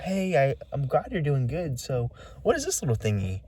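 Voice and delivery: mildly imitating the woman's slick friendliness; smooth eerie talk. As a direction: keep it smooth and sugary. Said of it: "She wasn't, like, stuttering".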